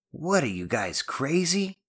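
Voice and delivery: incredulous question leaping up high at the end; horrified disbelief. Acted. Janetti questions his friends, in horrified disbelief. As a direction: ask it aghast, pitch climbing. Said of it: "with a mixture of horror and wonderment".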